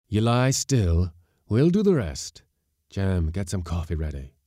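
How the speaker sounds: skipper tending a half-drowned sailor, firm and loud; gruff skipper voice. Acted. Skipper tells the sailor to rest, commanding.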